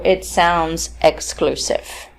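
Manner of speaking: slow, with "exclusive" dropping at the end; falling tone. Shown as a demonstration. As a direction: draw out "exclusive" and let it fall. Demonstrating falling tone of second example.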